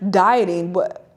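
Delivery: mock-incredulous echo of the word "Dieting?". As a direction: repeat "Dieting?" as if it's absurd. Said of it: "She's like".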